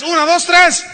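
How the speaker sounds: high, loud shouted count; women's shout. Shown as a demonstration. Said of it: "Ahora las mujeres a las tres". (cuenta gritada, aguda y fuerte)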